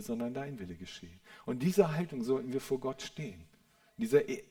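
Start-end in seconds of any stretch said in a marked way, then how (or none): 0.0-1.2 hushed surrendering prayer. Retold or imitated. Jesus praying before the cross.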